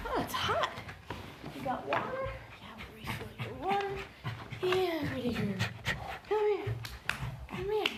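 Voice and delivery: soft high cooing. Real, not acted. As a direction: coax gently, up high. Soothing the dog.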